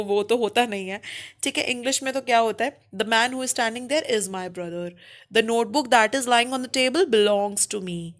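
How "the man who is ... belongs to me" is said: very slow, word by word; slow example reading. Shown as a demonstration. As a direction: read both examples slowly. Teacher reading examples slowly. (धीमे उदाहरण वाक्य)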